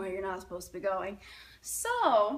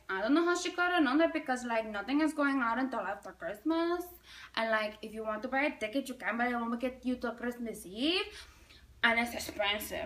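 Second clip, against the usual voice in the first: put-on Spanish accent; 3 dB quieter, faster than usual. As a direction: airline clerk with a Spanish accent. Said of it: "there's this Spanish lady there".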